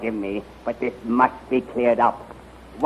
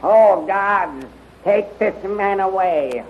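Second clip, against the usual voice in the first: alarmed command; 8 semitones higher, 3 dB louder, slower than usual. Acted. Alarmed general barks orders.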